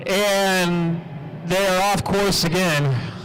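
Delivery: race announcer commentary. Real, not acted. Continues calling the race.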